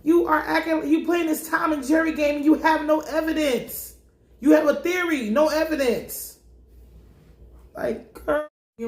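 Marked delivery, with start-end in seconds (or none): 0.0-6.4 cops mock scolding. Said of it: "They like".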